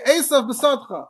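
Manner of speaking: "Esav B'Sadcha" said slowly, with a clear break between the two words; careful word separation. Shown as a demonstration. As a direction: keep "Esav" and "B'Sadcha" apart, don't run them together. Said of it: "you should say".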